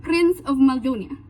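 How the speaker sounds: put-on mixed Portuguese and French accent, consonants stressed; Prince Naveen's accent. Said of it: "highlights the sound of the consonants".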